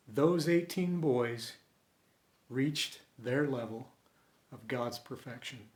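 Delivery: a moved father speaking through tears; softly. Retold or imitated. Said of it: "said the father softly".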